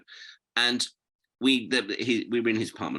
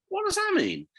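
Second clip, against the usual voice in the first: much higher, puzzled question; mock bafflement. Brit questioning the policeman's remark, retold bafflement. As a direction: imitate baffled disbelief, pitch jumping up.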